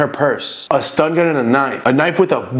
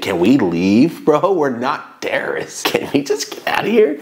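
innocent act; 2 semitones higher than usual. Retold or imitated. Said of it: "I'm trying to do the whole innocent".

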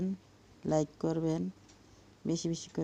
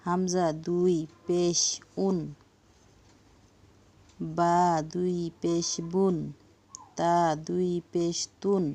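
steady chanted letter-by-letter spelling; spelling drill recitation. Shown as a demonstration. Teacher spelling Arabic letters aloud for students, chanted cadence. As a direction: recite each letter with its vowel marks like a class drill. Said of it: "চলুন আমরা পড়ি।".

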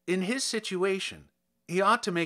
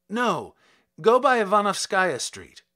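louder, higher, hurried change of route; urgent correction; 4 semitones higher, 7 dB louder than usual. Acted. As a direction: snap a new order at the driver. Kovalev corrects the cabman.

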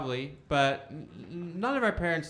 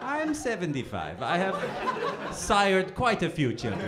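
mock old man; 3 semitones higher, slower than usual. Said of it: "some old horny guy back there".

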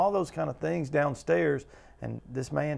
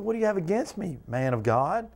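higher-pitched mock accusation toward Elijah; mock accusing cry; 4 semitones higher than usual. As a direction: hurl the question like a grieving widow. Widow accuses Elijah in retelling.

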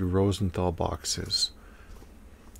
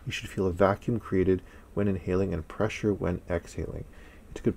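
muffled behind respirator; speaking through mask; through a face mask. Real, not acted. Seen 5: Speaker's webcam shows white respirator over nose and mouth throughout.

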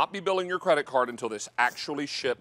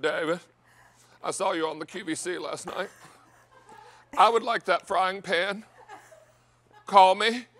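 Mimi's whiny Southern voice; 4 semitones higher than usual. Retold or imitated. Grandson retells grandma's phone message in a mock whiny Southern voice. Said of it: "she talked to me in this very whiny Southern voice".

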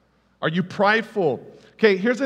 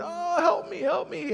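high, retold cry for help, much higher; a light imitation of a panicked plea; mock wailing; 9 semitones higher, 4 dB quieter than usual. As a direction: imitate drowning tourists calling out.

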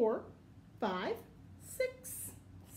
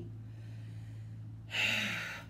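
sigh; 4 semitones lower than usual. Acted. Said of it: "he adds with a sigh".

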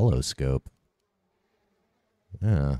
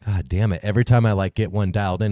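frustrated outburst; 4 semitones higher, 5 dB louder, faster than usual. Real, not acted. Frustrated at dodging enemy.

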